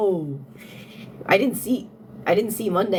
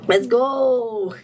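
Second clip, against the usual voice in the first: cheer; 2 semitones higher, 4 dB louder than usual. Real, not acted.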